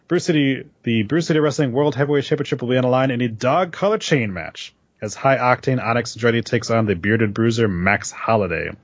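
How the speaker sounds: upbeat event announcement read; promo read. Acted. Reads promo for wrestling show.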